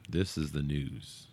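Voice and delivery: low, soft trollish voice. Shown as a demonstration. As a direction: drop low and rumble like a troll. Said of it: "let's talk like a troll".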